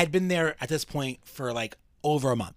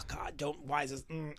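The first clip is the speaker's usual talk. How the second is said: rattled; 12 dB quieter than usual. Retold or imitated. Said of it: "it was, like, rattling me".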